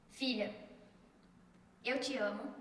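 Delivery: soft, unhurried fatherly words; tender quote of Jesus. Retold or imitated. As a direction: declare love gently, with pauses.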